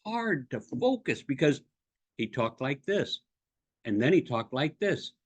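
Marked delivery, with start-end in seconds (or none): 2.2-5.1 "he talked like this" in a short block, then a pause; choppy phrasing. Retold or imitated. Coach imitating a speaker he heard, choppy "like this". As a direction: chunk "he talked like this" evenly, slightly low. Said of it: "listened to a guy talk that way".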